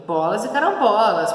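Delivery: mild acted annoyance, punched on carambolas; mildly exasperated outburst; annoyed. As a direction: read it as someone bothered. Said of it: "Tá incomodado".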